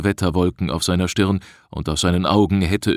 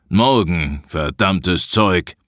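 slow, grumbled curse; grumpy cursing; slower than usual. A narrator's reading. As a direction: grumble back a greeting, then curse slowly. Irritable forester returns greeting, cursing. (mürrisch fluchend)

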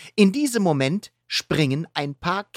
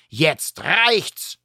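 shouting; 4 semitones higher than usual. Acted. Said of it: "schreit Catboy".

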